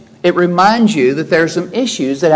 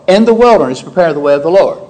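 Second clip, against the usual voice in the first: group "In the wilderness" with "prepare", leaning on the place; stress on where; faster than usual. Shown as a demonstration. Preacher showing where to prepare, stress on "wilderness". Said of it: "The emphasis there is on where to prepare".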